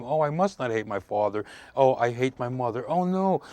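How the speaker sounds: mildly acted child in inner turmoil; over-dramatized child. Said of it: "I'm over-dramatizing this".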